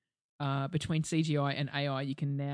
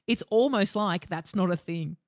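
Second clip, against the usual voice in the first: slow, pointed sarcasm; sarcastic; 3 semitones higher, 5 dB louder, slower than usual. Retold or imitated. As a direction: drag it out, dripping with sarcasm. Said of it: "sarcastic retort to Dad".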